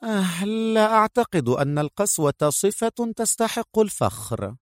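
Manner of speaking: high feminine character voice; high-pitched, restrained objection; young female agent, disapproving. Acted. Voices Mona disagreeing.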